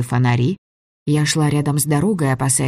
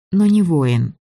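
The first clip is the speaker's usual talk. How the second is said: plain reading voice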